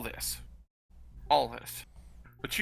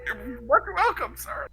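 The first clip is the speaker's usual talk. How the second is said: slow fake courtesy; 6 semitones higher, slower than usual. Thief escapes with fake courtesy.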